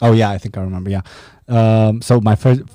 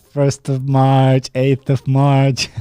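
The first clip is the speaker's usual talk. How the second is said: slow counting; 3 semitones higher, much slower than usual. Retold or imitated. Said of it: "My girl's finger counting".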